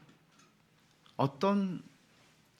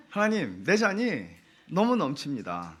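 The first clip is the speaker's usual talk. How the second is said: fervent grateful prayer; 4 dB louder, slower than usual. Acted. Pastor voicing a prayer to God, fervent and raised. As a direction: lift it up like a joyful confession.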